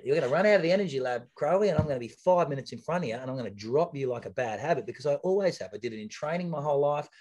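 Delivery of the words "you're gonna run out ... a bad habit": trash talk. Retold or imitated. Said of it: "And I used to say it".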